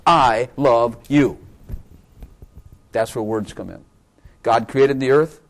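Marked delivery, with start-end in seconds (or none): 0.1-1.4 slow sincere I love you; slow, tender declaration. Shown as a demonstration. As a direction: stretch out I love you slowly and tenderly, leaning on I. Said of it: "so that you personally know".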